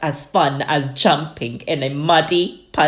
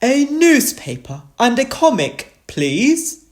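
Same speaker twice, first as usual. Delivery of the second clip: raised, loud storybook dog voice; Grandad and Danny Dog; 9 semitones higher, 4 dB louder than usual. A narrator's reading. Two dogs order from the boat, raised voice. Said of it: "Grandad Dog and Danny Dog said".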